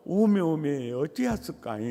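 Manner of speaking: Jeolla lament, slightly quick; 전라도 사투리로 걱정하듯; Jeolla dialect. Retold or imitated. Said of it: "딱 전라도 말로".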